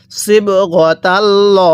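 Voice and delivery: slow, drawn-out tajweed chant; Quran recitation. Shown as a demonstration. Teacher recites the verse for students, slow tajweed chant. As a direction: intone each syllable slowly like a reciter. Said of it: "পড়ুন আমার সাথে".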